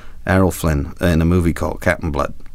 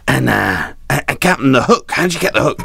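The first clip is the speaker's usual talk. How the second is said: put-on eager young reporter; 4 semitones higher than usual. Reporter asks about hook.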